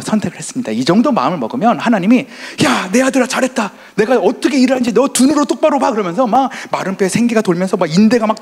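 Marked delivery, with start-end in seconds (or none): 2.6-8.4 high, loud, triumphant God voice; hammed-up booming divine praise; playfully acting out God cheering him on; imagined voice of God. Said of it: "막 이럴 줄 알았어요".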